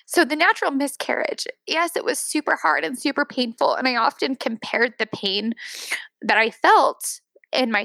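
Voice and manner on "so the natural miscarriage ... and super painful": still tearful. Real, not acted. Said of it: "I'm tearing up".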